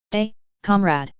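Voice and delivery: slow, silly fake Russian accent; hammed-up Russian accent reply. A narrator's reading. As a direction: drawl a bad Russian accent as a joke. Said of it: "I reply in an equally stupid fake Russian accent".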